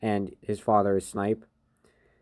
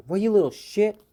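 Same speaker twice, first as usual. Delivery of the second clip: high, louder burst of indignation; mock outrage; 11 semitones higher, 6 dB louder than usual. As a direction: act out an outraged comeback. Bakugo hit by eraser, acted retort.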